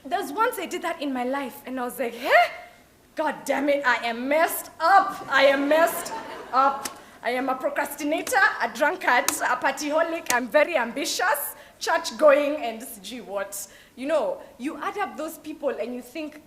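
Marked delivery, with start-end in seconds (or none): 2.1-13.7 loud, fed-up self-mockery; hammed-up exasperation at yourself; exasperated outburst. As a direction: blurt it out like a shocked realisation. Imagined self-talk, exasperated outburst.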